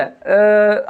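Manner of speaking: low अ without using the tongue; tongue held. Shown as a demonstration. Teacher showing that speech needs the tongue, low tongue-tied sound. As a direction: grunt अ as if the tongue were held. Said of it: "जीभ पकड़ ले".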